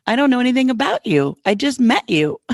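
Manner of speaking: high, amused retold protest; laughing disbelief. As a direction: protest loudly through a laugh. Laughing disbelief at near stranger's offer.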